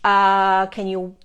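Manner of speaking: lightly voiced guides, pleased then asking a favour; guides cheering on. Guides praising humans to her, imitated upbeat cheering. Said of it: "That's what it's like".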